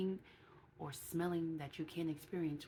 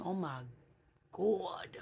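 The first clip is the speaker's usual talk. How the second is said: whispered disgust; 2 semitones higher, 4 dB louder, much slower than usual. Real, not acted. Disgusted exclamation.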